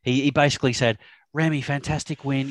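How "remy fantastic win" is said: impersonated Kiwi interviewer; Kiwi accent. Retold or imitated. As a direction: put on a New Zealand accent. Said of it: "in his Kiwi accent".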